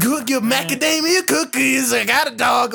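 lightly mocking a motormouth actor; nonstop noisy chatter. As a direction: rattle off silly babble to fill the silence. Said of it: "he's just kinda making more noise".

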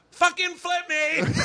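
high, drawn-out demand; imitating a fed-up friend; mock exasperation. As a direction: squeal it slowly, on the edge of laughter. Imitating Bobby's outburst on tube.

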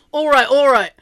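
put-on thick London accent. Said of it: "like, that thick accent".

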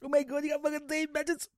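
high, put-on shocked outrage; mocking offended people. Mocking people offended by the word, shocked. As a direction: play a scandalised prude. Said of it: "People are like".

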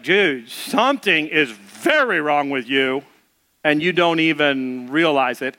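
acted-out deadly serious friend; grave confrontation. Acted friend confronts the freaked-out one.

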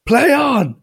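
high, loud imitated shout; mock referee's call. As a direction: call it across the pitch. Referee calls out with hands up.

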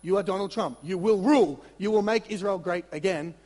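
loud, insistent mock protest; mock rebuke. Peter rebuking Jesus in a loud mock protest. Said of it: "He starts rebuking Jesus".

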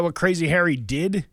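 ordinary talk

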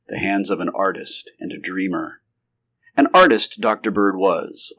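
measured audiobook narrator; storyteller setting out a character portrait; story narration. A narrator's reading. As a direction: read the description evenly, phrase by phrase. Reads story aloud.

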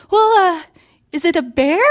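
high, hesitant mom imitation; mother's voice. Mom guessing which animal bites, high imitated voice. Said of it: "she's just like".

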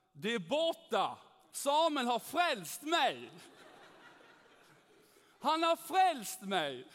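loud, high, slow ecstatic cry; shouting for joy. Retold or imitated. Nathalie shouts to the office after her migraine leaves, ecstatic. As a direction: yell it out, overjoyed. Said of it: "Ropar hon så här".

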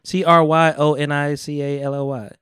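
letters spelled one by one; spelling out letters. Real, not acted. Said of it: "why you spell that word?".

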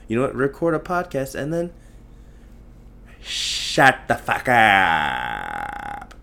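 mocking Indian film voice, the "shut up" parts slowed way down and loud; Indian movie accent. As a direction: tell them off like a Tamil movie hero. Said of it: "That's what I'm saying to them".

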